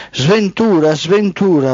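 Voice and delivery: high, loud double cry; the daughter of black night crying out a loud alarm; shouted. Acted. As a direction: shriek the name out twice, falling. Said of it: "urlò la figlia di nera notte".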